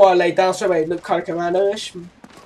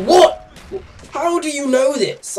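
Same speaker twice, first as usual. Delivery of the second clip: retold shock; 7 semitones higher than usual. Son reacting to his mum's revelation, acted shock. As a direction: recoil in mock horrified surprise.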